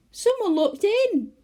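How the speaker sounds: high, loud and slow in alarm; frightened. A narrator's reading. Goldilocks frightened by a face at the window. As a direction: gasp it out, scared. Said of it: "gave a scream".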